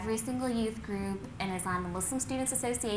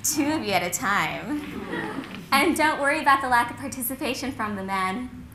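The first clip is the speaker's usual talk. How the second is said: campus community activist; 6 dB louder than usual. Acted. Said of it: "there's the campus community activist".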